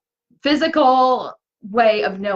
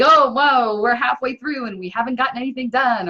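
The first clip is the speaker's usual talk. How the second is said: higher-pitched, lightly acted worry; mock alarm; 4 semitones higher than usual. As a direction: play at realising time is running out. Voicing panic at the halfway point.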